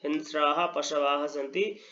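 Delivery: very slow, deliberate dictation; each word set apart for copying; slow repeat. Shown as a demonstration. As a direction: spell the answers out slowly for students. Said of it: "I repeat".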